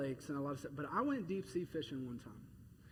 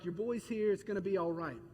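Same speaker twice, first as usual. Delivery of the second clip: casual. Pretend. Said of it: "This isn't just like".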